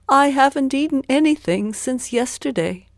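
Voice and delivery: high, loud begging voice; poor man asking. A narrator's reading. Poor man asks Zheng for a fish, high and pleading. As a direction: ask for a fish hopefully.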